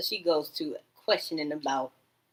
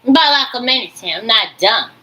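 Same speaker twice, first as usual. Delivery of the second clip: mock indignant shout; 5 semitones higher, 14 dB louder than usual. Mocking the voices she hears.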